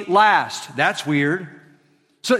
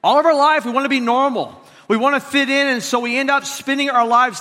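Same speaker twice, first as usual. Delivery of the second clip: rising emphasis; 5 semitones higher than usual. Real, not acted. Preacher building to a point.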